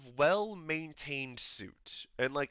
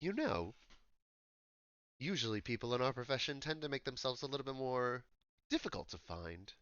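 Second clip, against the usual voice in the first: understated posh London gentleman; posh English accent; 4 dB quieter than usual. Acted. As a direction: try a refined English accent. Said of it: "very sophisticated, like, sounding English accent".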